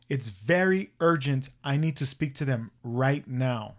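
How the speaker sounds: slow, deliberate, word-by-word urgency; insistent demand. Retold or imitated. Old man demanding someone on the phone, insistent. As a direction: press each word slowly, retelling a demand.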